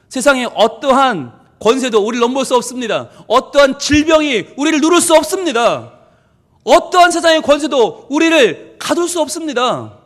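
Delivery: emphatic, rising declarations; forceful preaching. Real, not acted. Preacher assuring the congregation no power can overcome them, forceful proclamation. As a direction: proclaim each sentence with building conviction.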